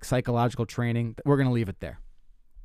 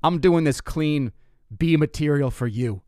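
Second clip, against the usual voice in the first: mock scolding; 2 semitones higher than usual. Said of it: "I'm like".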